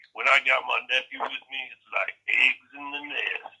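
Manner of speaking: slow, high mock of the uncle's reassuring drawl; imitating Uncle Scooby. Uncle Scooby imitated calming friends about his nephew, slow and high. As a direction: put on the uncle's weird calm. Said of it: "He's like".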